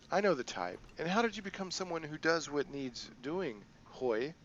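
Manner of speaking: a hint of a sly crime boss; lightly voiced, playful boss lady; Kindly Ching.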